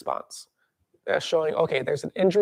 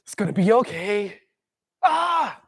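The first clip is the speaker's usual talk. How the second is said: higher, tense reassurance; mock anxious self-soothing; 4 semitones higher, 4 dB louder than usual. Scared person soothing their injured shoulder, tense. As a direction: talk yourself down while scared. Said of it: "Okay, like".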